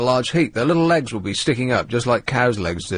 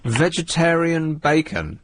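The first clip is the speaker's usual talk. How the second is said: slow, raised, doubting query; incredulous echo; 4 semitones higher, slower than usual. Real, not acted. Host questioning caller about vegetarian bacon, incredulous. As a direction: draw it out in disbelief. Host queries another odd food.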